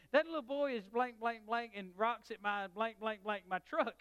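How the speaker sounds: loud, high outraged yelling; angry neighbour cussing. Retold or imitated. Neighbour cussing at the little boy over his truck, angry loud yelling. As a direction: bellow it like a furious old sailor. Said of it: "was standing in his yard cussing".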